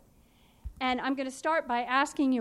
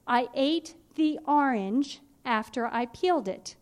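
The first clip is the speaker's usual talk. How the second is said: slow dictation. Shown as a demonstration. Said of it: "So listen to my sentence".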